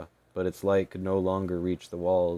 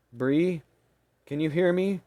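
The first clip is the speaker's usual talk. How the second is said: frantic; 10 semitones higher, 4 dB louder than usual. Acted. Maney frantically calls frozen fairy.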